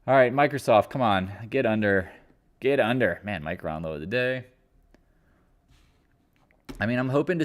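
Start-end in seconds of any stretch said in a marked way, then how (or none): 0.1-3.2 louder urging calls; rooting loudly for the drop; urging the stock. Real, not acted. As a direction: push it down like cheering a race.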